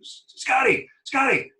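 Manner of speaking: high, pleading put-on appeal; a high mock whine, tipped stretched each time; manager's mock plea. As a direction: beg the umpire up high, half laughing. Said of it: "he goes".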